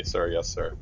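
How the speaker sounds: grudging, understated military acknowledgment; comply through gritted teeth; held-back, reluctant yes to an officer. Acted. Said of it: "grit their teeth and say".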